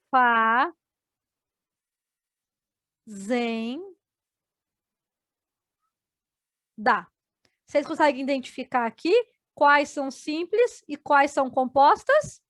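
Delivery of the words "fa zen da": "Fazenda" drawn out slowly, then "fa", "zen", "da" each alone; slow syllable split. Shown as a demonstration. Teacher splitting "fazenda" for the class, slow and syllable by syllable. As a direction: say "fa", "zen", "da" slowly with long pauses between. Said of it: "se nós separarmos agora por sílabas".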